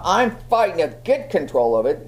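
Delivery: talking through gritted teeth. Shown as a demonstration. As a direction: fight for control through clenched teeth. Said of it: "You can see a grit the teeth thing".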